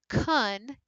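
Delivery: kun short and dropped; brief, low kun. Shown as a demonstration. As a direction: drop kun low and unstressed. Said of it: "is lower and shorter".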